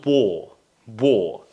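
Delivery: "war" as "waw", R silent; British "war", no final R; British O sound. Shown as a demonstration. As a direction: repeat "war" with a rounded O. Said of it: "That A is pronounced as O".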